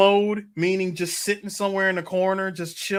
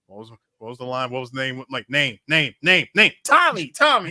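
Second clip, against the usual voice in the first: Doc Brown frantic recall; 5 semitones lower than usual. Retold or imitated. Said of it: "Doc Brown ... looking off, going".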